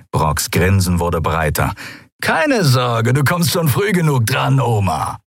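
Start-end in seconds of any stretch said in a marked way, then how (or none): 2.2-5.2 cruel, amused creature voice; gloating lizard thug. A narrator's reading. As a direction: taunt the prisoners playfully. Draxyl mocks old Xea.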